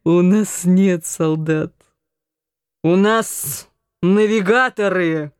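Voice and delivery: mock her threat drunkenly; drunken scoff. A narrator's reading. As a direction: drunk brother scoffing at his sister. Drunk Anton mocks sister.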